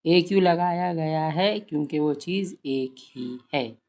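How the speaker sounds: slow teaching voice. Shown as a demonstration. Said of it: "बच्चों से कहिए".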